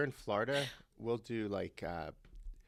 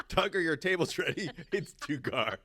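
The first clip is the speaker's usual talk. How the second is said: fake French accent; 5 semitones higher, 5 dB louder, slower than usual. Playing fancy restaurant host.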